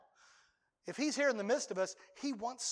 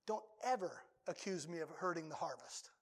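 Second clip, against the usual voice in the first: God's gentle rebuke; 5 semitones lower, 9 dB quieter than usual. Retold or imitated. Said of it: "what he may tell me".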